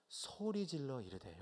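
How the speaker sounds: slow reading. Shown as a demonstration. Preacher reading the verse to the congregation, slow and soft. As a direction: lay out 소리 질러 이르되 slowly and quietly before the emphasis. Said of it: "여기 한번 밑줄 한번 쳐보십시오".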